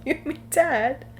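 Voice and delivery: slow, high mock Cockney voice; comic drawn-out Cockney; Cockney accent. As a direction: draw out the Cockney impression. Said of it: "or a Cockney British accent".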